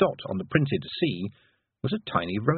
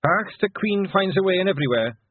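higher Scots pixie voice; broad Scottish accent; 8 semitones higher than usual. Acted. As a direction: Rob Anybody's Scottish brogue. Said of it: "said Rob".

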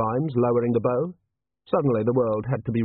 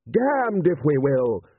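understated scream, drawn out and higher; slow, outraged lordly cry; 5 semitones higher, 4 dB louder, much slower than usual. A narrator's reading. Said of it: "screamed Lord Rust".

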